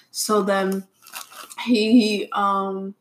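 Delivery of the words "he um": cracking voice, slipping out of control. Real, not acted. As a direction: voice breaks mid-word. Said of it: "oh, my voice".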